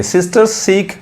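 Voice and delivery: very slow, word-by-word English sentence; slow example reading. Shown as a demonstration. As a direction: spell it out slowly for beginners. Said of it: "example देखिए". (बहुत धीमे शब्द-दर-शब्द पढ़ना)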